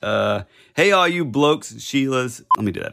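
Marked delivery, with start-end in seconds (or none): 0.8-2.4 a slightly louder put-on Aussie greeting; second try at a shouted Aussie hello; yelled Australian accent. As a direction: call out "Hey, all you blokes and Sheilas" in a mock Aussie voice. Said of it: "Yeah, yelling".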